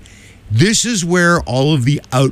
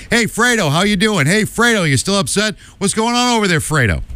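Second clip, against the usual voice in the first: higher-pitched imitation of ribbing buddies; mock teasing; 6 semitones higher than usual. Host voicing buddies' texts busting Cuomo, mock teasing. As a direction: needle him like a buddy, voice pitched up. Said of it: "is busting him by calling him Fredo".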